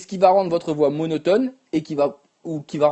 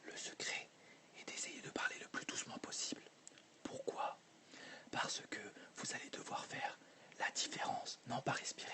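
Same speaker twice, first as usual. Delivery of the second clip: barely audible whisper, words breathed out; whisper demo; 26 dB quieter than usual. Shown as a demonstration. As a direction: whisper as if no one can hear you. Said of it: "de manière silencieuse, d'accord? Toute petite".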